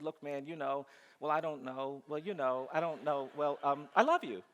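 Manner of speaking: hemming and hawing, then blurting out the I love you; mock-insincere kid stalling; insincere mumbling. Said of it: "as insincerely as I possibly could".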